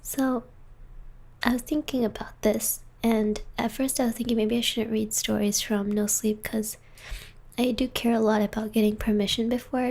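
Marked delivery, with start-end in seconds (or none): 0.0-6.8 whispering. Real, not acted. Whispering ASMR stream.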